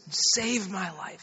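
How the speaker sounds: slow, soft prayer line for repeating; lightly voiced mother, drawing the words out; retold slow, quiet plea; mother leading prayer. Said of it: "You just pray after me".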